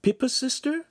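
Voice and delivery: very high, delighted questions; bright young woman's voice. A narrator's reading. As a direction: chirp with happy surprise. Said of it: "Giulietta said brightly".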